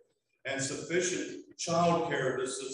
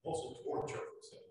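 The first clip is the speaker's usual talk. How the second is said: whispered; 6 dB quieter, much faster than usual. Shown as a demonstration. Repeated phrase, whispered.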